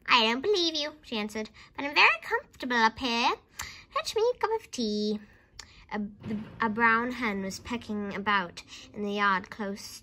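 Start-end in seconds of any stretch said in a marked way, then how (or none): 0.1-0.9 high, loud dismissal; loud disbelief. A narrator's reading. Grandma disbelieves George from the roof, loudly dismissive. 1.8-5.2 high, bossy grandma order; calling down. A narrator's reading. Grandma orders George to fetch tea, calling down.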